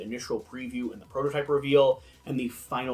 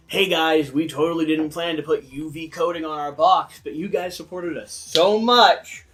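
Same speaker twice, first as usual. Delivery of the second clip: hype-y publisher voice; 2 semitones higher, 4 dB louder than usual. Retold or imitated. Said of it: "the, you know".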